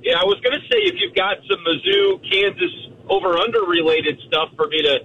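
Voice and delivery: rough, gravelly voice on the phone. Real, not acted. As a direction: talk through a gravelly throat. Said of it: "in the gravelly voice form once again".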